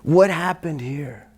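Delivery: slow, unvoiced out-of-breath whisper; barely any air left to ask; breathless whisper. Exhausted student asking teacher what happened, whispered. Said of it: "I said".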